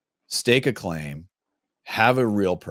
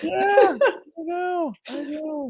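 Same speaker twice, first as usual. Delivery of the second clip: high teary laughter; laughing; much slower than usual. Real, not acted. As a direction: laugh till it almost cries. Laughing-crying after the joke.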